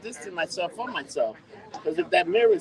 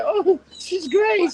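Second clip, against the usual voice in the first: high, loud, drawn-out mock praise; mock gushing; 12 semitones higher, 6 dB louder, much slower than usual. Retelling what was said to the guy, mock gushing. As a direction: push it way up and stretch it out.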